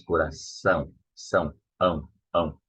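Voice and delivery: "Coração" broken down to its nasal ending "ão"; pronunciation drill. Shown as a demonstration. Teacher having students practise the ending, pronunciation drill. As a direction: strip "Coração" back to "são", then nasal "ão". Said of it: "you have to, to practice this".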